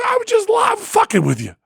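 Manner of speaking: high, joyful shouted confession; gleeful shout. Retold or imitated. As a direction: yell it out in triumph. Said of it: "I go".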